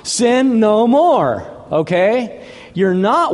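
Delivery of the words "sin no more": high, emphatic order, drawn out at the end; stern command. Retold or imitated. Preacher as Jesus forgiving the woman, stern command. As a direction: lay down the law, slowing on the last words.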